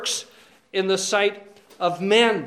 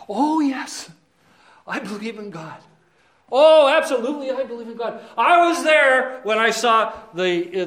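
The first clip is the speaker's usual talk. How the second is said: smug devil; 4 dB louder than usual. Pretend. Devil answering the brothers, eager and smug. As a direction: play the devil selling himself. The devil voiced applying for fellowship.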